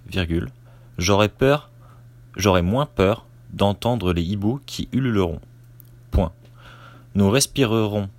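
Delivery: first read-through of a dictation, punctuation spoken; dictating. Shown as a demonstration. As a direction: read it out clearly like a teacher's dictation. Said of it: "je fais la première lecture".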